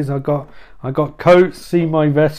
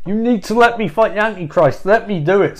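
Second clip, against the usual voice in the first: higher, insistent begging; pleading Jesus; 6 semitones higher than usual. Acted. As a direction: push the pitch up, lightly acted plea. Jesus begs the crowd surrounding him.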